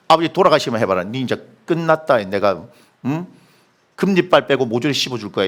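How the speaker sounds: low, muttered mock threat from an angry brother; menacing threat. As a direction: growl it low like a gangster big brother. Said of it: "형님이 그렇게 얘기했어요". (동생을 위협하는 형의 낮고 험악한 목소리)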